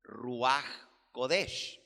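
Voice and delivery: "ruaj kodesh" as two separate Hebrew words; "ruaj kodesh" with rasped j and closing sh; Hebrew pronunciation. Shown as a demonstration. Teacher translating Espíritu Santo into Hebrew, careful Hebrew pronunciation of "ruaj kodesh". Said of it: "se dice".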